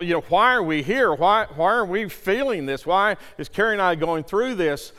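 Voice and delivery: loud, impassioned challenge to God; attitude with God. Retold or imitated. Father pleading for his sick son, indignant. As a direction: argue with God, pressing each question. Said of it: "copped a little attitude with God".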